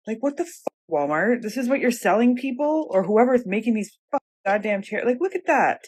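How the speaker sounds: exasperated rant at the store, swearing; frustrated outburst. Real, not acted. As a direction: vent the anger at wasted money. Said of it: "I'm just mad at myself".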